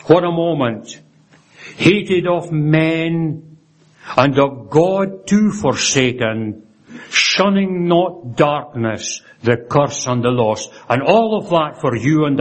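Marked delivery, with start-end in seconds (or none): 1.8-10.7 slow, measured recitation with long pauses; solemn verse recitation. Retold or imitated. Preacher reciting verse on Christ forsaken, slow and solemn. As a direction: draw out each line solemnly.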